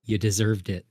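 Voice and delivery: low, hushed aside; quietly, as if for one listener only; whispering. Acted. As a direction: drop to a low, quiet murmur. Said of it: "I whisper to him".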